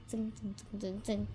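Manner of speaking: soft hushed "zing" like a creeping spider; quiet creepy sound effect for kids; whispered zing. Acted. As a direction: whisper the buzzing spider noise.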